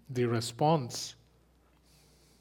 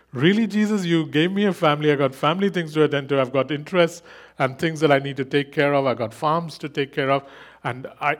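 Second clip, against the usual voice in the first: exasperated complaint; 2 semitones higher, 5 dB louder than usual. Retold or imitated. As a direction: protest as if wronged. Mock complaint to Jesus.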